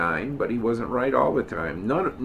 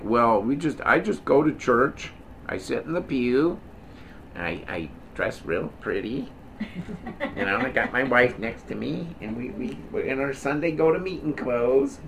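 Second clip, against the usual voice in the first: sarcastic churchgoer voice. Acted. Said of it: "I'm being a little sarcastic here".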